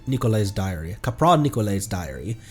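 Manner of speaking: ordinary talk, nothing marked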